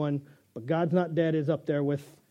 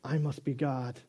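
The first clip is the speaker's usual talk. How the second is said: smug cat; 3 semitones lower, 6 dB quieter than usual. Pretend. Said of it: "Cat says".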